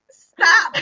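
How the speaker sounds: firm stop command. Retold or imitated. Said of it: "Emotional intelligence says".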